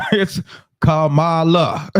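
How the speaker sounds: Kamala drawn out slowly, stressed kah-MAH-luh; careful pronunciation. Shown as a demonstration. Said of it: "Thanks for the proper pronunciation".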